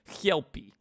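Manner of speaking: hammy Russian-accented character voice; Victor, bad Russian accent. Shown as a demonstration. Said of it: "I do Victor's voice".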